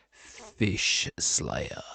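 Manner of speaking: breathy whispered name. Real, not acted. Streamer whispering a friend's odd username.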